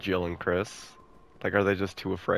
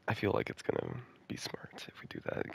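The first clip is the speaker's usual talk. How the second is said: whispering; 9 semitones lower, 11 dB quieter than usual. Real, not acted. Whispering during game.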